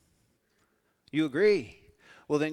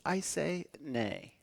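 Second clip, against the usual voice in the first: horse pun delivery; 2 semitones higher, 5 dB quieter, much slower than usual. Shown as a demonstration. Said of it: "do you wanna be a horse".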